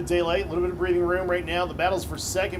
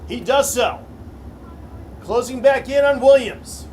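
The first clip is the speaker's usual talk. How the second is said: excited race call; 8 semitones higher, 8 dB louder than usual. Real, not acted. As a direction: call the finish with full hype. Final lap race call.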